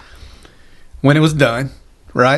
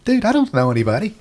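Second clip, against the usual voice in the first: higher, pleading protest; mock protest; 7 semitones higher than usual. To the boss on his first day, a raised pleading protest.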